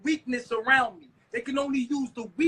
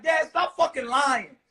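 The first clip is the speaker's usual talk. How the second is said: mock shout; 4 dB louder than usual. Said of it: "step up and be like".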